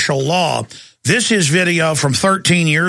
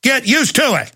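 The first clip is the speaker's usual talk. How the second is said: mock patriotic; 6 semitones higher than usual.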